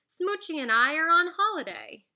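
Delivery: lightly voiced grand duchess; posh duchess. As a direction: play the haughty duchess. Duchess speaking.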